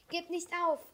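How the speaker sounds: high, loud urging; calling out. A narrator's reading. Crab urges the child on, calling out. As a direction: call out encouragement from afar. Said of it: "rief Capio".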